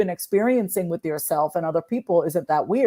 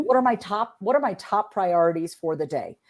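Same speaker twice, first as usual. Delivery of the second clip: logical tone. Shown as a demonstration. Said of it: "I used very little emotion in that voice".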